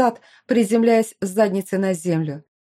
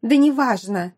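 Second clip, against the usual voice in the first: squealed; 3 semitones higher, 3 dB louder than usual. Acted. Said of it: "взвизгнула Аделла".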